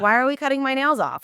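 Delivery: mildly indignant quoted question; retold objection. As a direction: ask it fast and put out, retelling your own objection. Objects to nail cutting.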